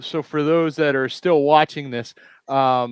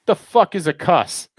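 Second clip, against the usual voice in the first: mock bafflement, pitched higher; retold blunt challenge; 5 semitones higher than usual. Visitor questioning laser tag girl, higher mock bafflement. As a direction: play puzzled and confrontational. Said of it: "I go".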